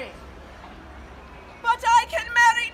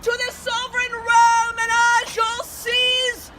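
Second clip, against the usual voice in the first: warm regal boom. Acted. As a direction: proclaim it to the crowd like a queen. Queen addresses her subjects.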